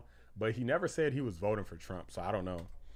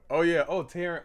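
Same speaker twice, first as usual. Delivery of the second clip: higher, louder burst of delight; excited; 6 semitones higher, 5 dB louder than usual. Real, not acted. Streamer spotting a friend's post, excited yelp. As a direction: yelp it out with glee.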